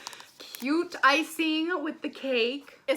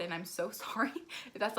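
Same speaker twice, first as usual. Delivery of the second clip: normal talking voice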